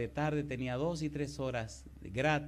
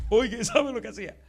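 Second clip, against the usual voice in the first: excited aside; 10 semitones higher, 10 dB louder than usual. Real, not acted. Pastor builds suspense to congregation.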